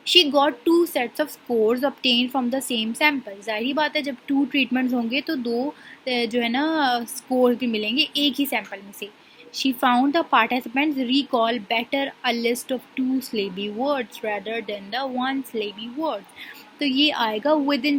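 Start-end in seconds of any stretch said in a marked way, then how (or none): 0.1-3.5 reading a definition aloud. Shown as a demonstration. Teacher reads out example scenario. 9.6-16.3 slow, deliberate dictation pace; reading a definition aloud. Shown as a demonstration. Teacher reading a textbook definition to her class, slowly. Teacher reads out example scenario.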